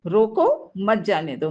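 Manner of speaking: "रोको" set apart by a pause; falling "मत जाने दो" after a halting "रोको"; stern order to stop. Shown as a demonstration. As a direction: punch "रोको", then drop through "मत जाने दो". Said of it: "मतलब उसे रोको, जबरन रोको".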